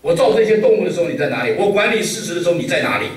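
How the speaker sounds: God scolding. Retold or imitated. God berating Job out of the storm, loud and high. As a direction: thunder the questions down at Job, stressing 造 and 管. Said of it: "上帝把约伯大骂一顿呢".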